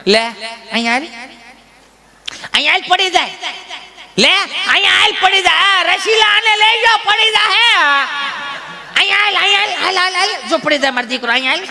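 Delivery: put-on high, sing-song granny coaxing a toddler to walk. Grandmother coaxing her toddler grandson to walk, high sing-song. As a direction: call the baby to come step by step.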